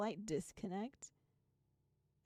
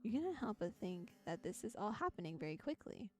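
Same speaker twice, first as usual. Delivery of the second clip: steady second-person storybook read; calm narrator reading a game's prose; story narration. A narrator's reading. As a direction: read the passage like an interactive novel. Reads second-person story passage.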